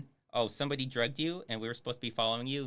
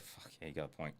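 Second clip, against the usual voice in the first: mock dim cop, lower and much softer; dopey agreement; 8 semitones lower, 12 dB quieter than usual. Streamer mocks the cop who just gives in, dim mock voice. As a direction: play the cop as a dim pushover, conceding. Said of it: "He's like".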